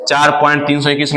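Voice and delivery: "तीन सौ इक्कीस" run together quickly as one number; brisk reading, "तीन सौ इक्कीस" lumped into a single figure; read as whole number. Shown as a demonstration. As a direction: rattle off "चार point तीन सौ इक्कीस". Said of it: "वो गलत है".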